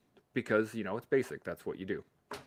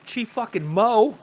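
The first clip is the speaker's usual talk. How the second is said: louder, higher, slow hype call; hype shout; 11 semitones higher, 10 dB louder, slower than usual. Real, not acted. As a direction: proclaim it like a title. Hyping up the speaker.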